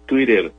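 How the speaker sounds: Twitter with the t said like an r; English Twitter. Shown as a demonstration. Correcting Leo on English, Twitter with flapped t. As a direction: Twitter flapped in the middle, twiɾer. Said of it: "una R".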